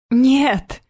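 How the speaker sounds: put-on high, loud desperate child's cry; high loud child's shout of despair. A narrator's reading. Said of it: "отчаянно выкрикнула Соня".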